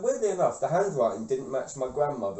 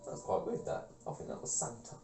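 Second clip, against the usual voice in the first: awed whisper; 4 semitones lower, 14 dB quieter than usual. Retold or imitated. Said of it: "I'm like".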